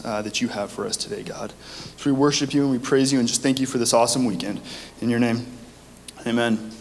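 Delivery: earnest spoken prayer. Acted. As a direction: pray it sincerely. Leads a prayer.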